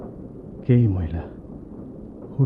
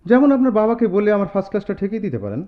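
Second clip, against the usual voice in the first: mocking laugh; 8 semitones higher, 3 dB louder, faster than usual.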